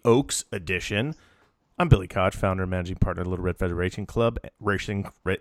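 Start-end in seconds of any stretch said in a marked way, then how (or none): 1.8-5.4 rushed title, tongue catching at the end; tripping over speed. Real, not acted. Host racing through his own club title, fast and tripping. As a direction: rattle it off and stumble. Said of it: "when you say it really fast".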